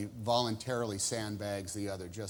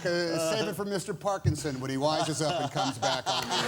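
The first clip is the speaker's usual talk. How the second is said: mock indignation; 3 semitones higher, 6 dB louder than usual. Guest feigns anger at host's criticism.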